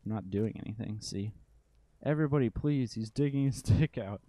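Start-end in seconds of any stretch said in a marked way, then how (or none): 2.0-4.2 high, loud mock panic, calling out to the neighbours; hammed-up cry for help; kid shrieking for help. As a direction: yell it up to the windows like a tattletale child.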